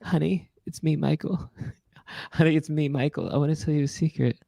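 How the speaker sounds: soft breathy pop-star whisper; a hint of a pop-star croon; a famous singer. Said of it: "It's a famous singer".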